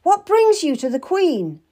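high, loud challenge; demanding. A narrator's reading. Narrator confronts Mistress Stab at the queen's door, demanding. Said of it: "I demanded".

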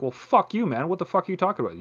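hammed-up pretend anger; mock angry. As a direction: snap back at someone who insulted you. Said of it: "and I'm like".

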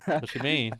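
put-on country accent, playing innocent. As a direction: talk like a laid-back country boy. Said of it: "it's, it's turning".

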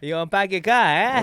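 amateur imitation of Boston accent. Host echoing the guest's park your car, Boston accent. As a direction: copy a Boston accent, r's dropped. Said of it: "See, it sounds like".

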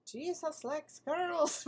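high, slow, badly faked British; botched British accent, stretched out; attempted British accent. Shown as a demonstration. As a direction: have a shaky go at sounding British. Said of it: "I could try British".

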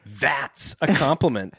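COMPLIMENT read out slowly with emphasis; emphatic. A narrator's reading. Narrator voices Chet answering Joe, slow and emphatic. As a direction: draw out "That's a compliment" emphatically. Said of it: "Chet said emphatically".

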